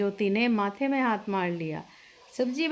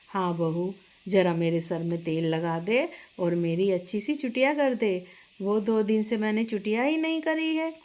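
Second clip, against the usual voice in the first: a slightly lower, motherly mother-in-law welcoming the bride; 4 semitones lower than usual. Acted. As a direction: speak as the proud mother-in-law showing off her big family. Mother-in-law asks bride for oiling. (थोड़ी नीची आवाज़ में सास का किरदार)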